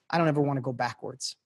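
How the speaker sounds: quiet, choked-up admission; emotional. Retold or imitated. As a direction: let the feeling well up as you say it. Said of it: "I felt my whole body change".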